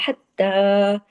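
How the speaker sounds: हत्ता with the ha pushed from the throat; throaty ha. Shown as a demonstration. Teacher showing students the throat sound in हत्ता. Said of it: "हा की आवाज आपको पता है गले से आती है".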